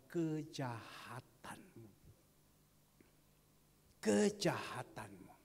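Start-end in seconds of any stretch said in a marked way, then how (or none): 4.0-5.3 slow, heavy, louder; stressed repetition. Acted. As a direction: press the word home. Preacher repeats the key word.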